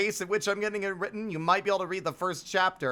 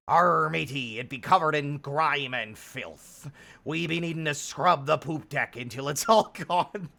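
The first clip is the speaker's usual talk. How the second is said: pirate voice. Pretend. Pirate talk about scrubbing deck.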